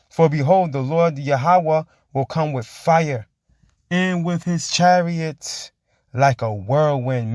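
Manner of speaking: very slow, drawn-out verse reading; preached scripture. Acted. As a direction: stretch each word like a proclamation. Reads scripture aloud.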